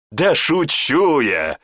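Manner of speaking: slow, loud laughing reply. A narrator's reading. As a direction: burst out laughing. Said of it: "расхохотался Гант". (с хохотом)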